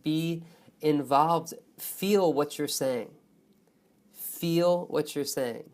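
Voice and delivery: slow, stretched key words with weight on FEEL; feeling-filled emphasis. Shown as a demonstration. Teacher urging students not to speak like robots, heartfelt emphasis. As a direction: lean slowly into FEEL, meaning every word. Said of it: "You can feel what I'm saying".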